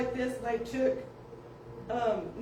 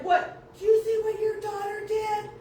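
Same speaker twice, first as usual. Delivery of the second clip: high loud indignant question; indignant outburst; 10 semitones higher, 5 dB louder than usual. Retold or imitated. Parent outraged at daughter's prank, high and loud. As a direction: demand an answer, outraged.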